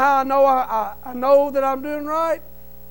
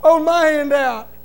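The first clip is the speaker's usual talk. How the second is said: louder, slow, fervent prayer to God; 4 semitones higher, 5 dB louder, slower than usual. Retold or imitated. Praying in his truck for the banker, loud fervent plea. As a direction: pray it out loud and slow with full conviction. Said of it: "I sat in that truck and I said".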